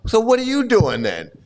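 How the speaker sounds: a mildly testy challenge, acted out; lightly hammed-up annoyance; getting mad. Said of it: "and he's getting mad".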